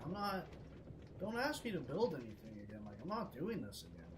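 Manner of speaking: mildly angry, putting your foot down; pissed off. Retold or imitated. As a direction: refuse with some irritation. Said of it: "I'm actually pissed off".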